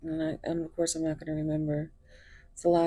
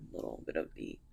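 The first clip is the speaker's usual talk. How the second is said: chesty cough; 10 dB quieter than usual. Real, not acted. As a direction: voice catching on a tickly cough. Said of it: "that little tickle in your throat".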